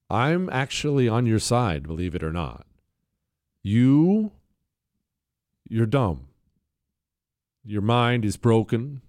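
loving voice. Pretend. Host tells hostile listeners he is on their side, mock loving. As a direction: deliver hard words as if gently and lovingly. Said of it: "that's my loving voice right there".

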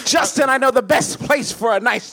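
lightly voiced Tim Curry; a hint of Tim Curry; Tim Curry impression. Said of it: "an impeccable Tim Curry".

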